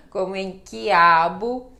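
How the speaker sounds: quiabo slow and loud, QU like K. Shown as a demonstration. Teacher modelling quiabo with a K for the class. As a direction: say quiabo slowly with a K sound. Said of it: "a pronúncia é Q".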